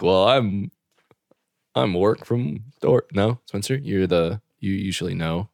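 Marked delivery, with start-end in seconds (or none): 0.0-3.1 slowed, drawn-out Mork line; lightly voiced sitcom quote; slow mock quote from the show; quoting a TV line. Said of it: "It's like".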